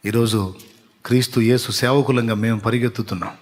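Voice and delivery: usual speaking voice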